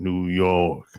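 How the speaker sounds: put-on low, drawn New York accent on "New York". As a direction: say it like a New Yorker. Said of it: "That's how they talk".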